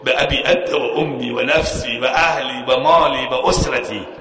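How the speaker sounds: slow, drawn-out Arabic devotion with weight on مالی; slow devoted recitation. Shown as a demonstration. Preacher to the congregation, showing how to address Husayn: slow devoted recitation. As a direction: savour each word, به ابی انت و امی slowly. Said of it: "اما به غلام حسین جون میشه گفت".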